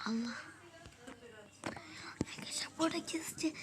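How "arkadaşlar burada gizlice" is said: whispering. Real, not acted. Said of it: "ses çıkarmam lazım".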